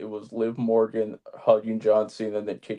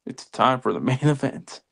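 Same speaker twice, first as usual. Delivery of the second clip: Mark Henry impression, laughing; 2 semitones higher than usual. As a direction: announce the main event, cracking up. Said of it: "can we get the Mark Henry from you".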